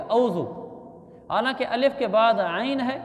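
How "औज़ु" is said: औज़ु short, straight au; wrong pronunciation. Retold or imitated. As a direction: say औज़ु quickly as au-zu. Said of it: "अलिफ के बाद सीधी वाव आ जाती है". (औज़ु, सीधी वाव के साथ)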